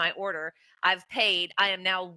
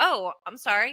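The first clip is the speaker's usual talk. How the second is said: mock-startled, apologetic tone, slower; 2 semitones higher, 4 dB louder than usual. Retelling being told someone was next, speaker acts out their own startled apology. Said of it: "And I'm like startled".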